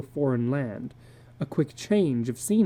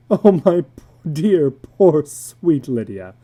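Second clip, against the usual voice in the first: breathless relief; 8 dB louder, slower than usual. Acted. Husband consoling after scare.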